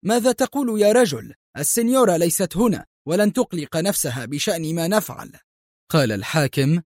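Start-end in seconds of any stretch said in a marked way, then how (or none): 0.1-5.3 much higher disbelieving cry, then fast; man objecting to the governor's choice, incredulous; incredulous protest. A narrator's reading. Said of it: "مستنكرا".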